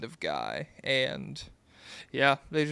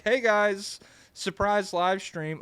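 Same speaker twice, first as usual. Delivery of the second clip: higher, lightly acted streamer hello; imitated livestreamer greeting; 5 semitones higher, slower than usual. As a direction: announce a surprise stream to viewers. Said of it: "just being like".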